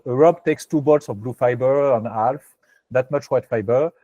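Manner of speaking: English read slowly with a French accent; heavy French accent on English words. Real, not acted. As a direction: read the English line as a French speaker would, unhurried. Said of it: "désolé pour mon accent anglais".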